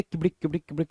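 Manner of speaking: quick, soft galloping noise; imitated horse-riding clip-clop. Shown as a demonstration. Teacher mimes riding a horse by the reins, imitated clip-clop. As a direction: rattle off a little hoofbeat noise. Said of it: "उसको आप पकड़ के ऐसे".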